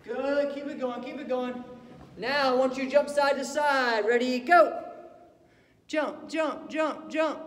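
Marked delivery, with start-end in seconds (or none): 2.2-7.4 loud coach shout over the music; shouting commands. Real, not acted. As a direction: bark the reps out loud.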